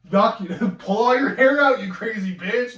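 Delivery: laughing rant at the crazy woman; laughing yell. Real, not acted. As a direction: shout it while cracking up. Laughing angry outburst.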